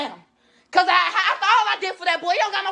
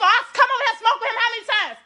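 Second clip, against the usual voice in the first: fast furious yelling, voice pitched up; hollering; 6 semitones higher than usual. Real, not acted. Shouting at her friend's mother about the theft, fast and furious. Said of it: "Why you hollering?".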